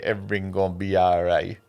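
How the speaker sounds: put-on throwaway Jamaican accent. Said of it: "with the fucking accent".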